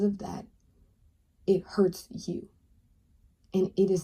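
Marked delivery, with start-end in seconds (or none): 1.5-2.5 whisper. Real, not acted. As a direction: breathe the words out gently. Softly stressing the hurt.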